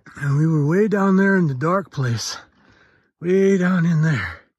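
breathless speech. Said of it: "you wonder why I'm breathing hard".

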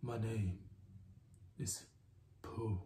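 put-on faux-deep voice, almost whispered. Show host introducing themself, switching into a put-on deep voice. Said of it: "Let me get my deep voice on".

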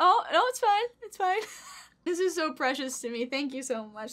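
crying while talking. Host thanking someone for a piece of art, crying while talking. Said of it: "there goes a tear".

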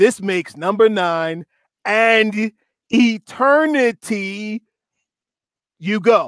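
slow, deliberate, intentional reading. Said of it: "I wanted to read it slow and intentional".

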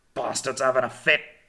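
loud, gruff, snarling growl. As a man collapses kicking and writhing against their legs, his companion growled. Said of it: "growled Jackson".

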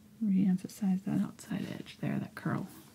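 soft whispering. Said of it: "I'm whispering again".

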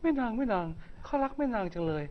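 man's high put-on woman's voice.

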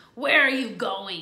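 beastly, growling wolf-like voice. Reading a story aloud, voicing the wolf who meets Little Red, growling. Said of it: "he growled".

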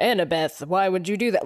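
normal talking voice

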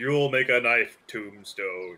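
ominous intoning voice, as if from the sky. During a role-play scene, a player voices a figure from the sky: ominous God of the Earth voice. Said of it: "Ominous voice from the sky".

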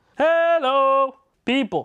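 projected, very high, drawn-out voice carried across the room. Testing a microphone in the living room, projecting voice. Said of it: "I'm projecting a little more".

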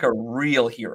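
ordinary talk, nothing marked

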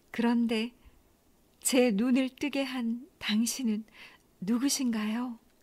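bashful, trembling, halting voice with breaks. A maiden asks the immortal who gave her flowers, trembling, shy question. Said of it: "떨리는 목소리로 수줍게 물었습니다".

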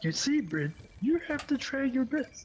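very high, sickly frog-puppet voice. After talk of being no good at impressions, try a bad Yoda impression, like ill Kermit. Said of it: "You sound like a very ill Kermit".

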